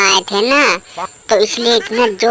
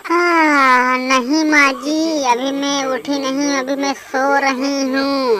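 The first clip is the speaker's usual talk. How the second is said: higher, half-asleep lazy bride refusing to get up; sleepy daughter-in-law; 4 semitones higher, slower than usual. Acted. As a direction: answer from bed, higher and drowsy, brushing her off. Sleepy Poonam answers mother-in-law.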